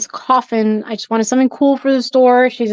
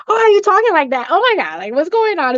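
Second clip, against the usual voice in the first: retold alarm; 6 semitones higher, faster than usual. Retold alarm at wife's trance.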